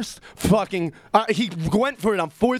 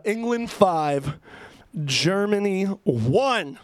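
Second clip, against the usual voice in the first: slow announce; much slower than usual. Shown as a demonstration. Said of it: "We're gonna play".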